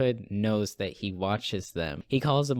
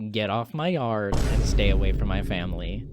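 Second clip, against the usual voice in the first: lower, mildly angry husband voice; fuming; 4 semitones lower than usual. Acted. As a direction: act out a restrained angry warning. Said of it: "Kevin is fuming with anger".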